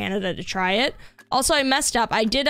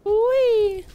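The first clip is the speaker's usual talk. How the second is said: excited whee; 10 semitones higher, 3 dB louder than usual. Real, not acted. Flying down in the game.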